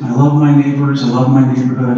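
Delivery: loud, upbeat proclaiming of the post; cheery declaration. Retold or imitated. Pastor reading his own upbeat post to the church, loudly cheerful. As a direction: sell it like a happy neighbor.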